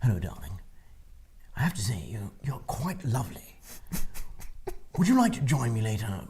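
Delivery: hushed, soft documentary-narrator flirt; David Attenborough. Pretend. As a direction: seduce her in a nature-show murmur. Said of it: "as David Attenborough".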